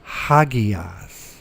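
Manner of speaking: Hagias with a breathy h at the start, slow and deliberate; careful model pronunciation. Shown as a demonstration. Teacher modelling vocabulary for students, slow careful Hagias. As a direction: say Hagias clearly for the class to repeat. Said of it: "Rough breathing".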